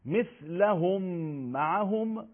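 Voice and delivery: «مثلهم معهم» recited high with the m lengthened; doubled mim example. Shown as a demonstration. Teacher giving an idgham example, mim lengthened. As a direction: raise the pitch and linger on the m in «مثلهم».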